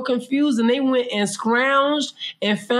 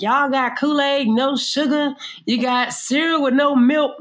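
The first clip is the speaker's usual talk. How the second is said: movie quote; 5 semitones higher than usual. Retold or imitated. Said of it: "Remember where he was like".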